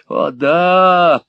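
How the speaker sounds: high, loud gloating yes; smirking. A narrator's reading. Gride smirking at Nicholas, gloating high. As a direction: grin through it. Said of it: "ухмыльнулся Артур Грайд".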